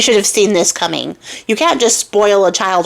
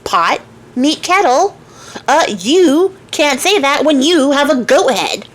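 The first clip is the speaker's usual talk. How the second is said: higher, slow, lightly voiced sassy old man; old man's retort; 5 semitones higher, slower than usual. Old man throwing her insult back at her, slow and sassy. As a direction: deliver the comeback slowly and dry.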